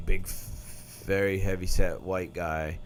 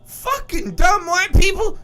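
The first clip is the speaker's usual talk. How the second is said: higher, louder, slow mocking voice of a black woman; black woman impression; 6 dB louder, slower than usual. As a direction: play the sassy woman in the theater. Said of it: "a black chick impersonation".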